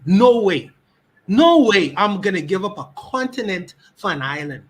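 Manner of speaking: loud, emphatic rejection of trading a continent. Real, not acted. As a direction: slam down No way. Refusing to give up a continent.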